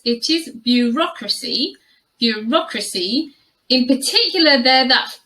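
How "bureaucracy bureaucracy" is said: "bureaucracy" as byuh-ROK-ruh-see; careful model pronunciation. Shown as a demonstration. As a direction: stress the second syllable of "bureaucracy". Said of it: "This word is really quite tricky to pronounce".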